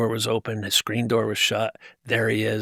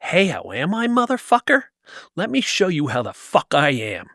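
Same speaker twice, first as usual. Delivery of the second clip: snarled retort, higher on motherfucker; retold rage; 4 semitones higher than usual. Confronting his abuser in the doorway, furious retort. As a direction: spit it back at him in rage. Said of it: "the face he made of rage".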